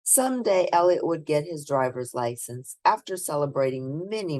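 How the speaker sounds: put-on lively read-aloud voice for children; storybook reading. A narrator's reading. Reading a picture book aloud to children, lively storybook narration. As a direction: bring the bedtime story to life for little listeners.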